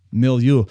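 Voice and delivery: "milieu" said clearly, loud, with a light French touch; word of the day. Shown as a demonstration. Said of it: "say it with a slight French accent".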